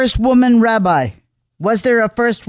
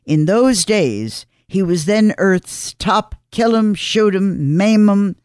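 measured column read with deliberate pauses; scripted radio commentary. Acted. Host telling listeners of a remembered hurricane, scripted commentary. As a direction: read it out phrase by phrase, dropping at the ends.

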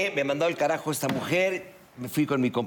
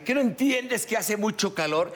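higher, slow whiny excuse; mock whiny excuse; 8 semitones higher than usual. Storyteller mimicking friend excusing being shirtless, higher and slow. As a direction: plead innocence like the caught friend.

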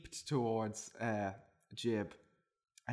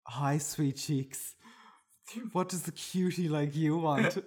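flirty barista; 2 semitones higher than usual. Acted. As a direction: coo at the customer. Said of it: "said the barista".

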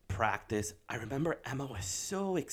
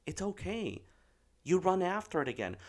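high-pitched, easy parental comfort; retold reassurance; 8 semitones higher than usual. Dad soothing daughter about missing ball, reassuring. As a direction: lightly brush away a child's worry.

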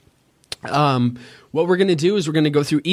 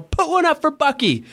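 much higher, ringing announcer catchphrase; 13 semitones higher than usual. Retold or imitated. Old college announcer replaying his touchdown catchphrase, high. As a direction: belt it out like a college radio play-by-play. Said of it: "Every time they scored a touchdown".

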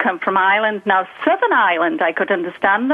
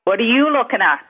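put-on Liverpool accent. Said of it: "they'll say stuff like".

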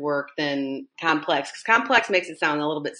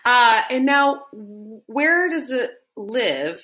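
playful host voice; 6 semitones higher, much slower than usual. Real, not acted. Host asks next question.

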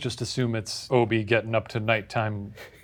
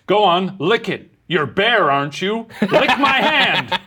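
higher, louder coaxing breaking into laughs; creepy coaxing; 9 semitones higher, 5 dB louder, slower than usual. Pretend. Creepy man coaxing the burglar to lick his hand, laughing. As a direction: coax him slyly, laughing. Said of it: "if he knew".

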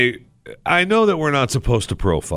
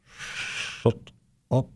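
unvoiced urgent whisper; whispered shut up; 3 semitones higher, 8 dB quieter than usual. Friend gripping my arm, a whispered shut up. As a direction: hush him sharply under the breath. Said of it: "squeezing my arm going".

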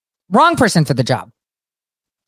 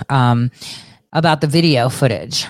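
ordinary delivery

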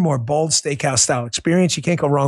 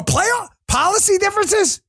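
incredulous high yelp; Jim Moore rant. Retold or imitated. Host riffing on a famous coach rant, high incredulous. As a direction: squeal the words in disbelief. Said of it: "This reminds me of that Jim Moore".

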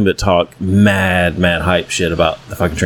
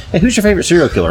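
mock kid voice; 10 semitones higher, faster than usual. Child tugging stranger's shirt.

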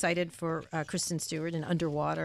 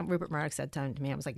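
normal talking voice

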